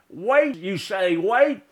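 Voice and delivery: indignant echo. Acted. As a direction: throw the word back, stung. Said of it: "My indignant reply".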